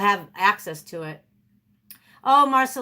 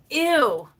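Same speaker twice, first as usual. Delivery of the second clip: higher, mock grossed-out exclamation; acted disgust; 4 semitones higher than usual. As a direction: let out a disgusted little squeal. Acting out her disgust.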